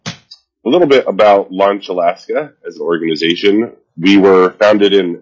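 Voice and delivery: talking through a head cold; blocked nose, stuffy voice. Real, not acted. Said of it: "I have a head cold today".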